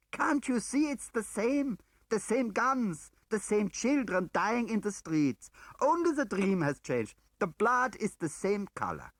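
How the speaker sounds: high, loud, slow outcry; shouted. A narrator's reading. Woman shouting at her husband about the dead children, high and slow. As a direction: cry out against the killing. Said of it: "I shouted at him".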